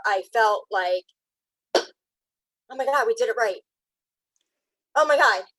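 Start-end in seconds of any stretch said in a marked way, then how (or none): 2.7-5.4 getting emotional. Real, not acted. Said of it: "it's making me, like, emotional and cry".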